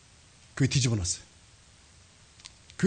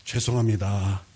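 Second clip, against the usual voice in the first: retold apology; 9 semitones lower, slower than usual. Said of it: "사과를 했어요".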